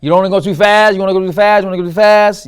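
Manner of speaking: loud, hurried rush through the words; rushing too fast. Shown as a demonstration. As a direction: race ahead to show too fast. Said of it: "Another P is for pacing".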